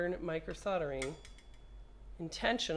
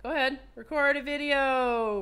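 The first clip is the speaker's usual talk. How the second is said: higher, louder insistence; loud command; 6 semitones higher, 6 dB louder than usual. Real, not acted. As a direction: order the phone to obey. Commanding phone again.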